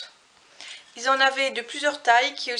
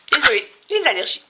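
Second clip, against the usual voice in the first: apologetic; 11 dB louder, faster than usual. Real, not acted. Just sneezed, apologizing.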